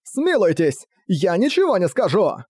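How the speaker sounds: high-pitched frightened begging; pleading for mercy. A narrator's reading. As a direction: beg the prince for your life, acted. Captive begging for his life. (жалобная мольба о пощаде)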